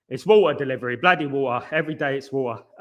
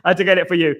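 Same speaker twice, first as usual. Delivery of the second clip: breathless laughing. Real, not acted. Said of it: "that's why I'm out of breath".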